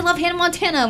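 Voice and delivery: imitated gushing maid, pitched high; lightly put-on high fangirl voice. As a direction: say it as a maid eager to relate. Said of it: "like, super high pitched".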